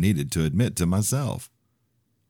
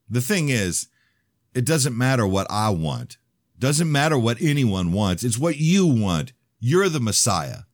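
high, slow mocking tone; 8 semitones higher, 4 dB louder than usual. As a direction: needle him, higher and slower. Jeremy mocking him.

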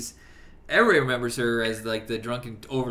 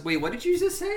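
quoting, higher pitch. Retold or imitated. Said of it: "And he goes".

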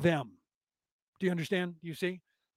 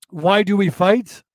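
imitating an Asian accent, a touch louder; a light put-on Asian accent, asking gently; 6 dB louder than usual. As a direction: say it like the wise Asian panda in the game video. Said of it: "He says it with an Asian accent".

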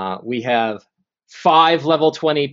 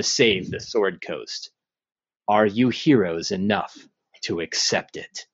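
ancient rasping undead king; 2 semitones lower than usual. Acted. DM voices the lich Zastam.

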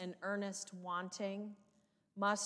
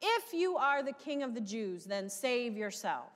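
mocking; 3 semitones higher than usual. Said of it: "the mocking that is coming from the crowd".

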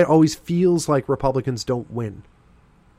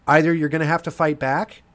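ordinary delivery

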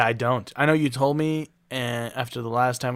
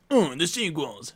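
whiny fan; 3 semitones higher, slower than usual. Retold or imitated. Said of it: "That's my impression of everybody that's like".

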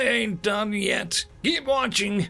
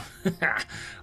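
short, dark knowing laugh; dark chuckle; 3 dB quieter than usual. Acted. Old man who knows what his captor doesn't, dark chuckle. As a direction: chuckle briefly, like you know better. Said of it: "the kind of dark laugh".

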